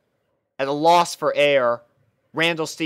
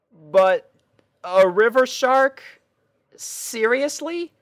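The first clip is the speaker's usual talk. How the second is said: higher, louder exasperated princess, slowing on Seriously; 10 semitones higher, 5 dB louder, slower than usual. Acted. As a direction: face in hoof, disbelieving. Celestia's dismay.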